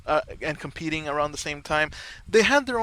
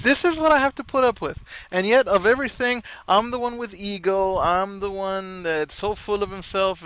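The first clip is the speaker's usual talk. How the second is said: mock third-person complaint; 5 semitones higher than usual.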